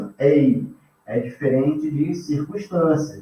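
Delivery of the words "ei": "ei" strong on e, sliding to weaker i; falling diphthong. Shown as a demonstration. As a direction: glide down through "ei", e to i. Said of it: "eu faço assim". ("ei" com e forte caindo para i fraco)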